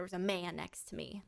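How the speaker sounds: conspiratorial whisper. Real, not acted. Telling viewers about the stranger seated beside her, whispered. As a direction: hush it like telling a secret. Confides about the seat neighbour.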